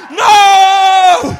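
loud, high outraged scream; high, loud mock scream. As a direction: scream it like stuffy religion. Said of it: "Religion is screaming".

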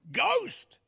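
very high, loud mock alarm; mock startled cry. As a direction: cry out as if imitating a spooked onlooker. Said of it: "imagine it's like saying".

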